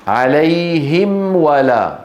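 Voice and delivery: عليهم ولا drawn out; slow recited example. Shown as a demonstration. Teacher recites an example for students. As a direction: stretch the meem before the waw. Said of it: "لما أقول أنا مثلًا".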